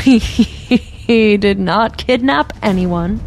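slow, deliberate denial in an unlike voice; cool denial. Acted. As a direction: deny it slowly and coolly. Official calmly denies kidnapping.

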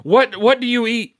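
amazed outburst. Retold or imitated. Acting out his amazed demand for answers.

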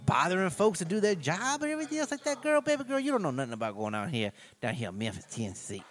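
mocking a movie detective's fake Memphis Tennessee accent. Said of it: "That's not even a fucking Memphis, Tennessee accent".

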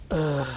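low, soft "uh"; low sound effect. Shown as a demonstration. Player demonstrates their game sound effect, low soft "uh". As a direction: drop into a quiet, low groan. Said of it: "I'll go low 'cause last week I went high".

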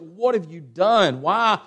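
slow, mildly outraged questioning; acted dismay, words stretched out; upset. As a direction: reproach slowly, as if outraged at wrongdoing. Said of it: "He's upset. He's like".

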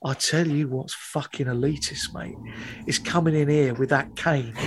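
low, menacing mock hard man; a hint of a quiet thug squaring up; hard man threat. Hard man to the pretentious student, low quiet menace. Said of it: "clearly hard as nails".

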